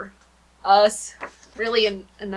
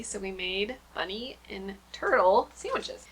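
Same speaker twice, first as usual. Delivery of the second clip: a quick breathy whisper to the camera; whispered, almost to herself; whispered aside; 2 semitones lower, 7 dB quieter than usual. Real, not acted. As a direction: drop to a whisper as if sharing a secret. Aside while showing cookie cutters.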